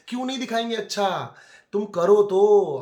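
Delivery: real exasperated dare; challenging outburst. Real, not acted. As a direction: throw the dare at her.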